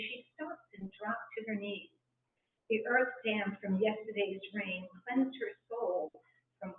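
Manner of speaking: gentle rhymed recital, line by line; poem reading. Acted. Reads her naming poem.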